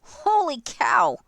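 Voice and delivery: loud, drawn-out exclaim; surprised. Real, not acted. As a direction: blurt it out, amazed. Big total revealed.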